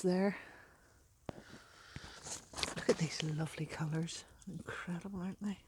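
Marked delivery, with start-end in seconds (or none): 2.8-5.6 whisper. Real, not acted. Admiring stone.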